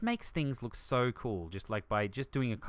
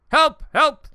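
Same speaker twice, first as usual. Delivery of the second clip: mock cry for help; 14 dB louder than usual. Stuck on ride, calling out.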